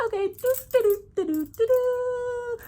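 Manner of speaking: high, sing-song humming to seem casual; playing it cute. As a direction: hum high and innocent, pretending not to notice. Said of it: "trying to play it cute".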